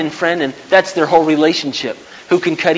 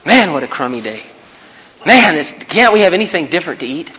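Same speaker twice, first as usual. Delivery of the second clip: acted grumbling, building to a louder, higher gripe; mock griping that grows more exasperated; negative complaining; 3 semitones higher, 3 dB louder than usual. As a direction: play a fed-up household complainer. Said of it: "another problem is just negativism".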